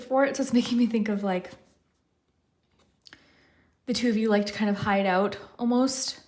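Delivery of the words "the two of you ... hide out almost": out of breath. Real, not acted. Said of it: "I'm very out of breath and I keep getting the hiccups".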